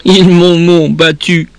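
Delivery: high child's wail broken by acted sobs; tearful high-pitched stammer; sobbing, broken voice. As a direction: stumble on the words as if sobbing. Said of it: "d'une voix entrecoupée de sanglots".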